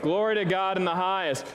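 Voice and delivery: Glory to God in the highest shouted out, GLORY hit hard; proclaimed like you mean it. Shown as a demonstration. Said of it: "Say it like you mean it".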